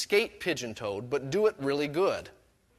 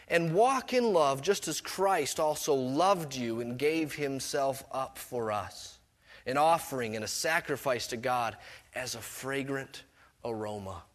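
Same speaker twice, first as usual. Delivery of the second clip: scripture reading; 3 semitones lower than usual. Acted. Reading scripture verse aloud.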